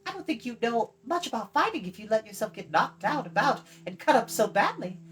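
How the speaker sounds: put-on high, bright girlish voice, proud of her ancestry; young girl Eilonwy. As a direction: play the chattering young princess.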